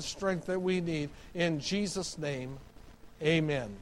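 subdued, earnest public prayer; pastoral prayer. Real, not acted. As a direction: lead the congregation in a quiet prayer. Leads congregation in prayer.

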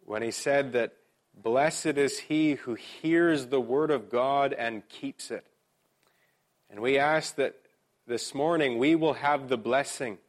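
measured prayer with pauses between phrases; public prayer. Real, not acted. Pastor asks our Father in heaven for blessing, prayerfully. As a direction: lead the congregation earnestly in prayer.

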